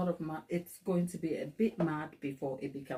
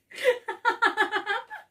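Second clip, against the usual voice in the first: squealing burst of real laughter; loud high cackle of real amusement; 6 dB louder than usual. Real, not acted. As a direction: crack up at your own work. Laughing at her own cake.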